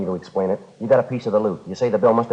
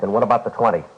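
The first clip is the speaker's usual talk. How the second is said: demanding; 4 semitones higher, 5 dB louder, faster than usual. Acted. Detective demands an answer.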